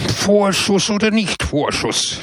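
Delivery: high, shrill shout of the little priest. Acted. Small priest shrieking at Pepone, high and shrill. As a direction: yell it up high, outraged. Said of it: "schrie er mit schriller Stimme".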